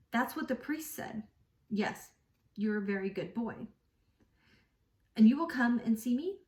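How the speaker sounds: steady, even read-aloud narration; calm audiobook reading; story reading. Acted. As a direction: read the novel passage to listeners. Reads novel passage aloud.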